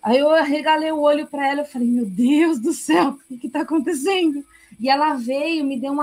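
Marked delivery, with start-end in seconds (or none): 1.9-4.4 espanto recontado, agudo no fim; choque encenado. Retold or imitated. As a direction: reconte o susto, alongando a exclamação. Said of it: "e eu chocada". (chocada, em tom de relato)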